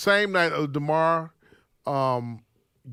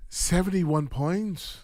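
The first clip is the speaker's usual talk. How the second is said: drawn-out mock Puerto Rican accent; much slower than usual. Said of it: "Say it in Puerto Rican".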